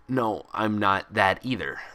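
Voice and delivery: slow, firm and serious. Acted. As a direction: spell it out seriously. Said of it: "emphasizing her seriousness".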